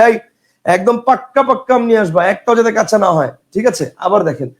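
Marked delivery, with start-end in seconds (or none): 0.0-3.3 পাক্কা with a held double k; insistent request. Retold or imitated. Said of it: "তাকে জোর দিয়ে বলতেছে".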